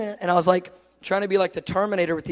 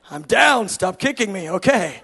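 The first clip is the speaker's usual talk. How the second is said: exasperated surrender; 8 dB louder, slower than usual. Retold or imitated. Beaten-down man pleading with God, loud exasperation.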